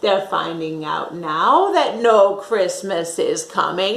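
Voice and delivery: gloating Grinch. Acted. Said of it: "he said, grinchiously".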